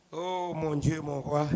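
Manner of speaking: low, soft invocation; subdued devotional aside; hushed prayer. Real, not acted. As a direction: breathe it quietly to God. Prayerful aside mid-sermon.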